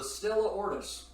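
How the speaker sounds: "Ortis" Anglicized, ending in a plain "tis"; mispronounced Stella Ortis. Real, not acted. Host naming the rival beer, "Ortis" mispronounced as OR-tis. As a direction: say "Ortis" as OR-tis, sounding the final S. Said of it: "however the fuck it's supposed to be pronounced".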